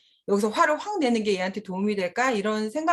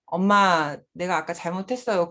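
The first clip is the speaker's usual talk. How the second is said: put-on child apologizing; 3 semitones lower than usual. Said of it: "그럴 땐 또 존댓말 써요".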